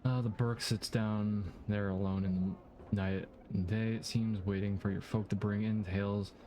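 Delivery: a hint of a Scottish accent on the rat seller; lightly voiced Scottish rat seller. Reading the rat seller's dialogue, light Scottish accent. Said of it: "Why am I giving him a Scottish accent?".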